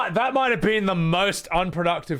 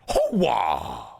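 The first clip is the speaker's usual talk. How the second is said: Al Pacino hooah; 5 semitones lower than usual. Shown as a demonstration. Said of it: "It's like".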